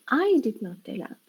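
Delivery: "I" picked out as the important word; stress on I. Shown as a demonstration. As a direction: lean on "I" at the start. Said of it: "that I is important".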